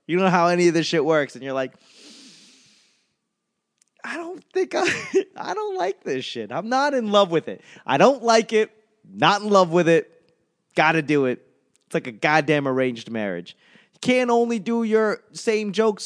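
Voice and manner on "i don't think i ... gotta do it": whiny inner voice. Acted. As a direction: whine like you're stuck in an arranged marriage. Inner voice, sick of new jokes.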